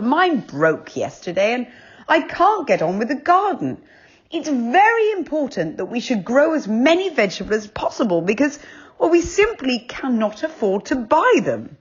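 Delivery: father. A narrator's reading. Father voiced in the story.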